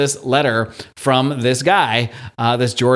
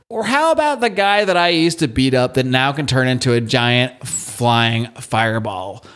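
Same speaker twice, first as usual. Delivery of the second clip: mock bully; 4 semitones higher than usual. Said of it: "and he says".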